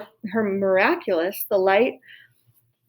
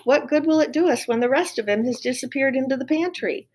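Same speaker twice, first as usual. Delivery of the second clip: shouted; 5 semitones higher than usual. Acted. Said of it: "shouted Cook".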